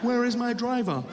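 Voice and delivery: loud show of waiting for a chauffeur; pretending it was planned. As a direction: act the put-out boss missing their driver. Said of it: "I act like I planned it all".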